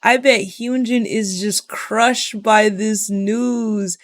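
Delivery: slow, gushing pity in a mocking fan voice; a hammed-up sympathetic fangirl; mock worried fan. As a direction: parody the fans fretting over Hyunjin. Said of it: "people are like".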